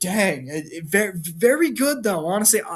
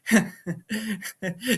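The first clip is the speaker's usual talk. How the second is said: mock villain chuckle; imitated demonic laugh; 4 semitones higher than usual. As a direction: laugh like a beaten but unfazed villain. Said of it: "like, demonic laugh".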